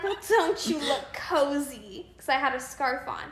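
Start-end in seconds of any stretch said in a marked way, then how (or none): 0.0-2.1 fake sweet. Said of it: "it's so fake".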